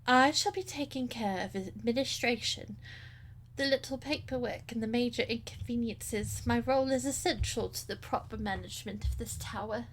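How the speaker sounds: put-on prim old lady voice; lightly voiced prim old woman; old lady character.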